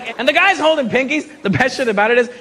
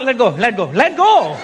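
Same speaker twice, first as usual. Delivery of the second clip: mock struggle. Acted fighter held by hand.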